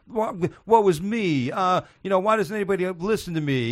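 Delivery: Dangerfield impression. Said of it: "Are you doing Dangerfield right now?".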